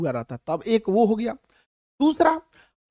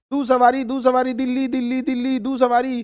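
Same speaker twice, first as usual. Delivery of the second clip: mock tout call; 2 semitones higher than usual. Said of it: "जहां खड़ा होकर चिल्लाते हैं सब".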